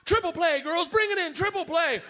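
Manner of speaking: high, loud coach calling plays. Retold or imitated. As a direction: bark it out like a peppy softball coach. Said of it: "throws it to first".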